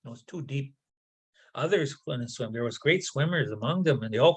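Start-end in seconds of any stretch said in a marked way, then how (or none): 0.0-0.8 winded, quiet and breathless; out of breath. Acted. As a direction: gasp it out after a deep dive. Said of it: "he came back out of breath".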